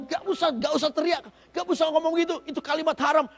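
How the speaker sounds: melarang dengan nada tinggi dan keras; scolding crowd. Acted. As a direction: tegur dia supaya diam. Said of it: "Dibungkam mulutnya". (orang banyak menegur Bartimeus dengan keras)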